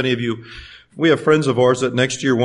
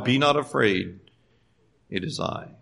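much softer, fading to a whisper; tender hush; 5 semitones lower, 8 dB quieter than usual. Retold or imitated. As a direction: comfort the listener gently. Jesus to listener, hushed.

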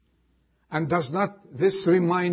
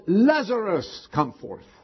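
calling out; 3 semitones higher than usual. Retold or imitated. Jesus calls the dead man from the grave, calling out. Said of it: "and he called".

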